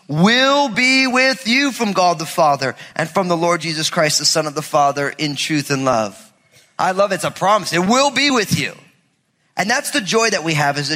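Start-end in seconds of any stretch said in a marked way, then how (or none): 0.1-6.3 scripture reading. Acted. Reads scripture.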